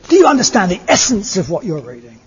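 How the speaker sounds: a lightly voiced old hag, pressing the question; hint of the crone's voice as she points the stick again; lightly acted old hag questioning the scholar. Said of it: "ugly old woman, this old hag".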